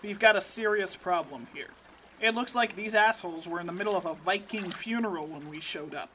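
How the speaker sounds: lightly voiced tough field agent; gruff agent voice. Agent character voice, low.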